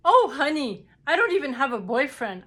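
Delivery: high, loud, quick mock protest; amused dismissal. Nurse answering patient's prediction that she'll get engaged, amused dismissal. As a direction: imitate a nurse brushing off a wild claim.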